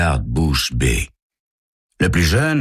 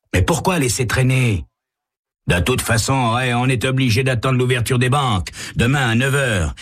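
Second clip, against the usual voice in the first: higher younger thug voice; pushy young crook, voiced higher; younger kidnapper; 7 semitones higher than usual. A narrator's reading.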